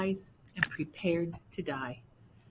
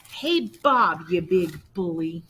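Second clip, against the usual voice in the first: scolding; 6 dB louder than usual. Acted. Martha scolds big dog.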